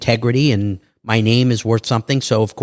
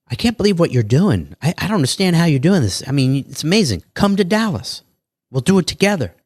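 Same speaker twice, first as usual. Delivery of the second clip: higher, eager invitation; mock amazed praise; 6 semitones higher than usual. A Dallas boss inviting him over, high and eager. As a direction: gush over his work and call him to Dallas.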